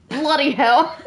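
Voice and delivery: drawn-out, playful British accent. Shown as a demonstration. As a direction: put on a laughing, slow British voice. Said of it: "requested earlier to do a British accent".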